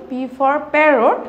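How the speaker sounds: very slow, every word drawn out for pupils to repeat; teacher modelling a phrase slowly for children; slow model phrase. Shown as a demonstration. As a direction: say it slowly so the class can follow. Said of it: "আমার সাথে সাথে বলো তো".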